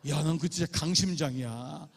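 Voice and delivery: usual speaking voice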